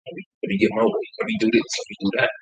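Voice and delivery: high, fast, mocking whine of "let me get my way"; mocking whiny quote. Mocking people who just want their way, in a high whiny voice. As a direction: sneer it up high and quick, like a spoiled kid.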